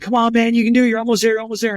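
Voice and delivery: coaxing a crawling man the last few feet; urging encouragement. Retold or imitated. Crew chief urging him on.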